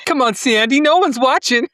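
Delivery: high, loud hammed-up American Danny; cheesy American greaser voice; American accent. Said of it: "did you do American accent?".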